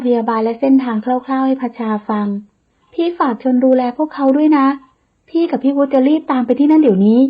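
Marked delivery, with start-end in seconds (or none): 2.9-7.2 urgent worried voice; a touch of alarm; anxious, hurried. Acted. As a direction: rush the words, fretting. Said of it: "น้ำเสียงร้อนรน".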